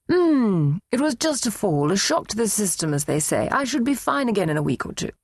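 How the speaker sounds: a hint of the mother, brushing it off; mother shrugging off a fall, lightly voiced; mother's voice. A narrator's reading. Elderly mother voiced by daughter.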